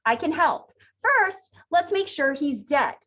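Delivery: lightly voiced calm operator; calm, soothing operator. Operator reassuring the panicked hunter, mildly soothing. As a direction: reassure the caller, lightly acted. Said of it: "in a calm, soothing voice".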